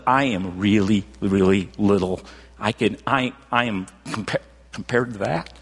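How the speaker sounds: a low, hushed voice, humbled before God; awed and small. Retold or imitated. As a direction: sound tiny and overwhelmed. Disciples feel small before God.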